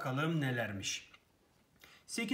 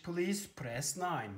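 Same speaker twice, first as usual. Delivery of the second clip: call centre voice; 2 semitones higher, much slower than usual. Shown as a demonstration. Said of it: "çağrı merkezlerini ararken bol bol duyduğumuz".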